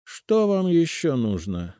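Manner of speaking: high, slow and haughty; haughty question. A narrator's reading. Old woman haughtily asks the guards. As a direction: look down on the visitors. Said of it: "надменно спросила она".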